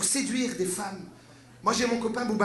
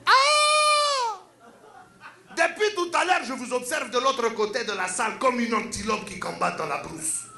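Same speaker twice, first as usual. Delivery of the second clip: put-on woo her with lofty words in the accent; pompous seducer, African accent; 3 semitones higher than usual. The speaker demonstrating his pickup to a woman, pompous African accent.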